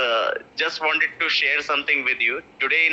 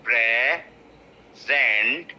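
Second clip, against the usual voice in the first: slow, broken syllables; 3 semitones lower than usual. Shown as a demonstration. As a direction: PRESENT drawn out, split as pre, zent. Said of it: "slowly pronounce the word".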